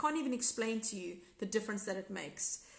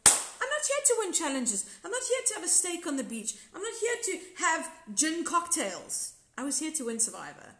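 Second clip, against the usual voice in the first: determined resolve; 5 semitones higher than usual. Retold or imitated. Retold self-talk after friend's advice.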